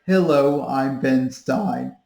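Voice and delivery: low, slow dry monotone; Ben Stein monotone. Retold or imitated. Coach mocking a flat monotone delivery. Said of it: "Just don't be like".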